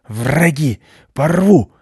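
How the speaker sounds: high, growled barking shouts; frenzied dog alarm; unrelenting guard dog. A narrator's reading. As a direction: keep barking threats with rolled R. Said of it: "не унимался пёс".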